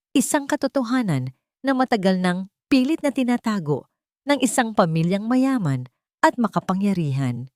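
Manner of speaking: formal press statement, firm and clear; clear and steady. A narrator's reading. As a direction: address the reporters with steady resolve. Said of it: "Ang kanyang boses ay malinaw at matatag". (malinaw at matatag na pananalita sa harap ng kamera)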